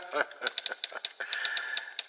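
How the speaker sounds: soft, unvoiced chuckle; a quiet laugh at your own joke; dry chuckle. Real, not acted. Laughs at his morbid domain name.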